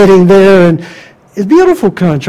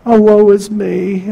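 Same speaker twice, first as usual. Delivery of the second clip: quieter, sighing woe is me; a softer echo of the whining lament; softer mock lament; slower than usual. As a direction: let the self-pity sink. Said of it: "you're blaming God".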